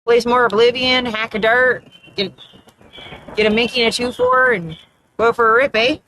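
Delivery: thicker small-town Canadian accent, playfully exaggerated; put-on Canadian accent. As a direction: lay on the Canadian accent with every "eh". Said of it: "I don't normally talk like that".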